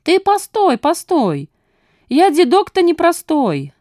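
put-on quick high old codger gabble; rapid old man patter. A narrator's reading. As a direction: rattle it off like a sly old man. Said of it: "зачастил Фандорин".

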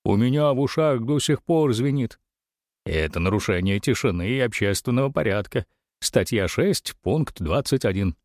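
three heads clamoring at once; chattering heads cutting each other off; many snarling voices overlapping. Acted. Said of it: "все три головы загомонили, перебивая друг друга". (головы змея галдят, перебивая друг друга)

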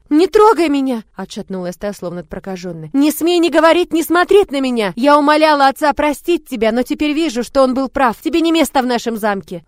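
put-on high, loud outraged girl; furious shout. A narrator's reading. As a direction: drive her away in fury. Девочка в гневе прогоняет. (гневный крик девочки)

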